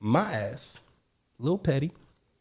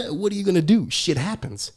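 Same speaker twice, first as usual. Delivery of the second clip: higher-pitched mock amusement, after a chuckle; tertawa meledek; 5 semitones higher than usual. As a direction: imitate someone laughing off another's loss. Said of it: "He starts laughing".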